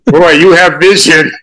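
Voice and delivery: high, loud gushing praise in jest; mock supportive mother. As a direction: play the proud mother, hammed up. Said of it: "didn't say it as a supportive".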